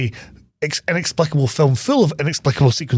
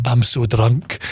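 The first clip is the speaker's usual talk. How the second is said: lower, put-on drunken slur; mock sozzled voice, pitched down; hammed-up drunk; 4 semitones lower, slower than usual. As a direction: play a badly exaggerated drunk. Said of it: "that's not how he speaks".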